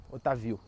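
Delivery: "Otávio" sem acento, o-ta-VI-o; tônica no VI. Shown as a demonstration. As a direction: repetir "Otávio" com a força no VI. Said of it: "vira uma paroxítona e vira Otávio". ("Otávio" soando como "Otavíu")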